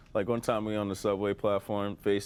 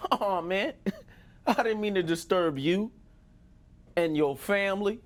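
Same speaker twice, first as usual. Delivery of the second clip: high-pitched, nervous apology; imitated frightened apology; scared backpedaling; 10 semitones higher, 3 dB louder than usual. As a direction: back down fast in a pitched-up voice. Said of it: "He was so scared".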